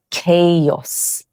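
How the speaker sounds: chaos said KAY-os with a hard K; correct chaos. Shown as a demonstration. Teacher models the correct chaos. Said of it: "the correct pronunciation is".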